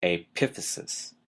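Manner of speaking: epiphysis, stressed on "PIF"; second-syllable stress. Shown as a demonstration. Teacher repeats the term for students, second-syllable stress. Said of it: "the second syllable".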